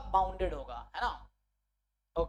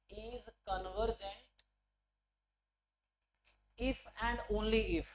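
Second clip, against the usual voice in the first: very slow word-by-word dictation; much slower than usual. Real, not acted. Teacher writing the theorem word for word, slow dictation. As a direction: spell the statement out at writing pace. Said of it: "word to word लिख के बता रहा हूँ".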